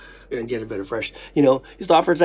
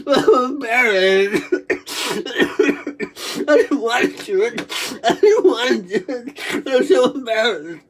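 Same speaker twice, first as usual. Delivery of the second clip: embarrassed laughing; 4 semitones higher, slower than usual. Real, not acted.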